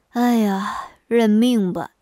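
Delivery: resigned husband's sigh; 叹气认命. Acted. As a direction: give up with a mild sigh. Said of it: "叹口气说". (叹着气无奈地说)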